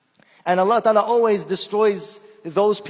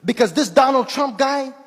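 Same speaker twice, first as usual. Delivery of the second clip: higher, louder, a lightly voiced old American man; old man's voice; 5 semitones higher, 5 dB louder than usual. Elderly man encourages the Muslim speaker, lightly voiced. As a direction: sound like the kindly old stranger. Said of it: "He said".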